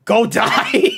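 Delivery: drawn-out mock send-off; mock curt dismissal. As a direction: stretch out a retold brush-off. Friend's exasperated retort, retold.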